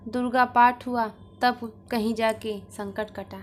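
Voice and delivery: lively, projected Hindi storytelling; story narration. A narrator's reading. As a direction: read the tale aloud, lightly voicing the dialogue. Reads a story aloud.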